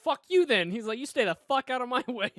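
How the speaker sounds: loud, high hammed-up rage; imitating an angry brush-off, not real anger; mock angry outburst. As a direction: yell it like a sulking hothead. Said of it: "he got really mad about it".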